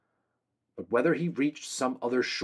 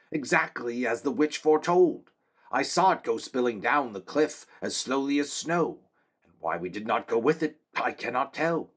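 high, earnest soldier's voice; a loyal guard reporting to his king; young man-at-arms; 3 semitones higher than usual. Acted.

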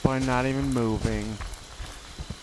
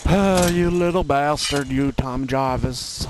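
high, loud outburst on spotting him; angry shout; 4 semitones higher, 5 dB louder than usual. Real, not acted. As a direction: blurt it out as he appears.

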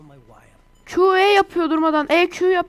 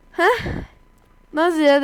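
retold surprise; slower than usual. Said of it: "dedim böyle".

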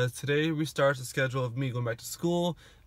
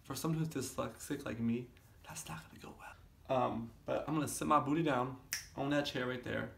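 quiet voice; 7 dB quieter than usual. Real, not acted. Quiet evening talk.

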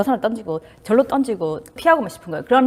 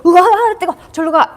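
higher, louder startled yelp at the heat; mock panic; 7 semitones higher, 7 dB louder than usual. Someone who can't handle the hot potato, mock panic. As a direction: flinch and push the hot potato away. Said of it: "핸들 못하는 거 뭐예요?".

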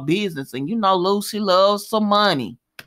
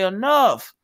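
Sonny. Retold or imitated. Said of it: "He loves to say somebody's name and say".

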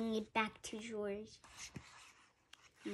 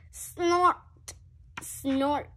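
higher, louder snort; playful pig snort; 4 semitones higher, 3 dB louder than usual. Acted. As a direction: snort it like a piglet. Child voicing pig snort.

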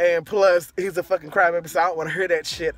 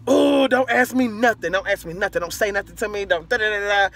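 mad; 3 semitones higher than usual. Retold or imitated. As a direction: retell a huffy refusal, trailing into babble. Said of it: "I'm mad. I'm like".

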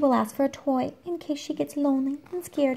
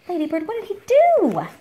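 surprised question; 9 semitones higher, 4 dB louder than usual. Real, not acted. Mock alarm at the dog.

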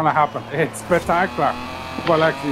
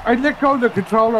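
laughing while talking; 4 semitones higher, faster than usual. Real, not acted. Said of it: "I was laughing that much".

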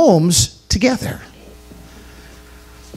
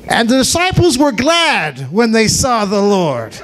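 joyful shout; 2 semitones higher than usual. Shown as a demonstration. Narrator repeats it as a joyful shout to the church. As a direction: proclaim it with joy.

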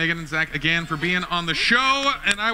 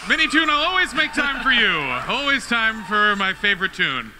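playful shout; 3 semitones higher than usual. Real, not acted. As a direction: call it out with a grin. Flirty banter with guest.

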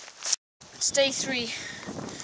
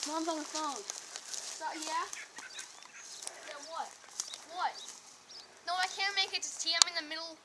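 hushed, lowered to a murmur; quiet phone talk; 14 dB quieter than usual. Real, not acted. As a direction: speak softly into the phone.

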